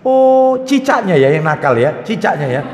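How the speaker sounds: mock-soothing parent blaming the lizard; coddling parent. Parent comforting crying child by blaming the gecko, cooing. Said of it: "Anak jatuh nangis".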